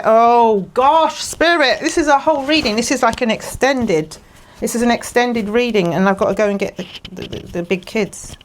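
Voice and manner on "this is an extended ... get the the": ordinary delivery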